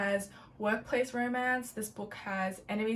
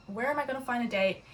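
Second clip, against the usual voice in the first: higher, quick fretting question; mild mock panic; 4 semitones higher, faster than usual. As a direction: act out someone lightly freaking out. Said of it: "freaking out".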